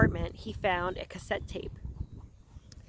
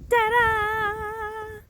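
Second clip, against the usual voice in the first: excited ta-da; 13 semitones higher, 5 dB louder than usual. Real, not acted. Showing off a surprise guest.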